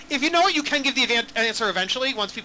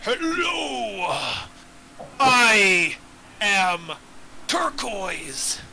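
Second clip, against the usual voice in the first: lightly voiced grand old dragon; 2 semitones lower, slower than usual. Dragon NPC speech, GM voice.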